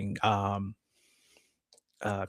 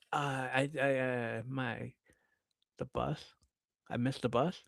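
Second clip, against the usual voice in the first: halting, softer stammer; hesitant excuse; 2 semitones higher, 8 dB quieter than usual. Retold or imitated. Caught child telling mom about the bus, hesitant. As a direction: grope for an excuse, imitating a caught kid.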